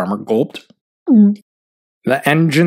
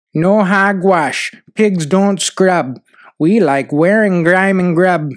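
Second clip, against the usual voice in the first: defiant pigs; 4 semitones higher than usual. Acted. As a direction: dig in stubbornly, drawing out the words. Pigs refuse again, in verse.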